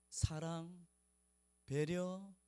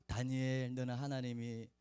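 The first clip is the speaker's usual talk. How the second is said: tender murmur; 5 semitones lower than usual. Retold or imitated. Speaking into the child's ear.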